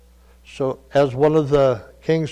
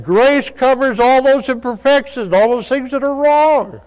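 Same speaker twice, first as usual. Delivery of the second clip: preaching; 8 semitones higher, 4 dB louder than usual. Real, not acted. Preacher building to climax.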